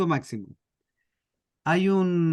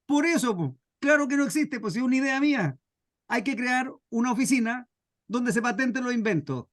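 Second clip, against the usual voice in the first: higher, pushing his point on the clerk; a stubborn man who won't take no, pitched up; exasperated inventor, voice raised in pitch; insistent inventor; 4 semitones higher than usual. Acted.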